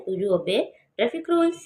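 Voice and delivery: rises on rules at the end; teacher's rising yes-no question; rising tune. Shown as a demonstration. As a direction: let the voice climb on rules. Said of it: "इस पे हमने आवाज़ को rise किया है".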